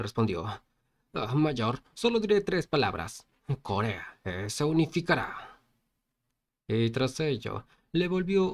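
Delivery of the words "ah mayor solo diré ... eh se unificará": understated fired-up annoyance; motivated, mildly angry. Acted. Friend answering the protagonist, motivated and a little angry. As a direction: answer back with a touch of anger. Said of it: "como que motivado y a la vez enojado".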